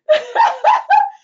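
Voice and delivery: high, loud burst of laughter; real laugh. Real, not acted. Scoffing at cheap CEO resumes with a laugh. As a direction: crack up at the very idea.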